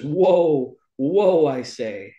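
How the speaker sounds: a loud, high call to stop the horse; retold yell. Boy calling his runaway sawhorse to stop, loud. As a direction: call out whoa as if reining in. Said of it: "and Tip yells".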